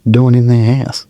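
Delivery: high, stunned disbelief; shocked outburst. Retold or imitated. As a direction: blurt it out in shock. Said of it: "I was like".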